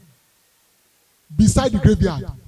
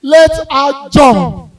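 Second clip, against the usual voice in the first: slow, louder deadpan order; dry loud dismissal; 3 semitones higher, 8 dB louder, slower than usual. Retold or imitated. Uncle Kingsley dismissing the wailing mom, loud. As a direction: let her go, unbothered. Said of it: "Uncle Kingsley just said".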